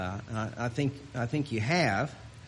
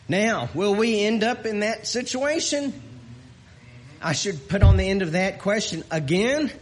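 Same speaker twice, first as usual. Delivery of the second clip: rising, louder sermon delivery; preaching; 7 semitones higher, 5 dB louder than usual. Acted. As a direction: preach it with growing fervor. Preaching rises in force.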